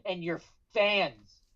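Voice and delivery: angry Finn promo. Acted. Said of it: "and he's pissed".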